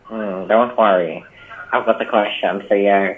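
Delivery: half-hearted Stephen Hawking imitation; a hint of a bad character voice; put-on character. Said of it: "with your bad accent and your bad character".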